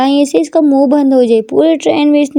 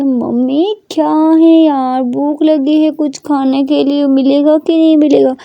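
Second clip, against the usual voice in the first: whiny daughter; 3 semitones higher, slower than usual. Acted. Daughter whining for food.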